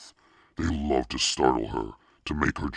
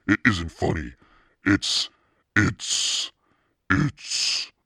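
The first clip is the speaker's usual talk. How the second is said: high, loud, stammering rage; spluttering fury; 6 semitones higher, 5 dB louder, much slower than usual. Acted. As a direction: choke on your anger, can't finish. Furious girl chokes on words.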